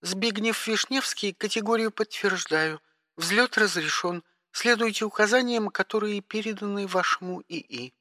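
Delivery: high, clipped dispatcher tone; operator voice. Acted. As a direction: speak like a bored spaceport operator. (голос диспетчера)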